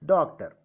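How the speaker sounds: doctor with the weight on DOC; stress on first syllable. Shown as a demonstration. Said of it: "where I have kept the stress".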